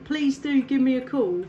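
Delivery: ordinary delivery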